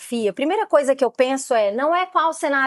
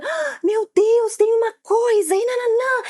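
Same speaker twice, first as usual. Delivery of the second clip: put-on excited child-directed voice; 10 semitones higher than usual. Shown as a demonstration. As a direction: sell a surprise to a scared child in a high, amazed voice. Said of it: "você tem que usar muito entonação vocal".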